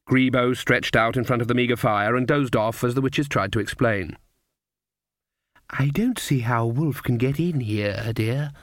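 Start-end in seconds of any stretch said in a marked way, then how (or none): 5.7-8.5 kindly grandmother. Acted. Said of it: "said the grandmother kindly".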